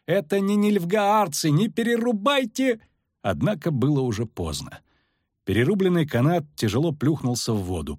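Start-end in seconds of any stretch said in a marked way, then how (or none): 0.0-2.8 high, urgent calling out; shouted plea. A narrator's reading. Poet tries to stop the axes, urgent high shout. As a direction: call high to stop them in time. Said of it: "крикнул Лютик".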